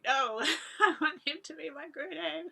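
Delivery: high, pleading retold protest with a laugh; tearful plea. Young girl begging for Gurudev as her guru, high tearful plea. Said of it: "I was like".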